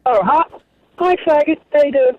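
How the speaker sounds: a playful, mildly camp hello; gay way. Pretend. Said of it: "you can say it in a gay way".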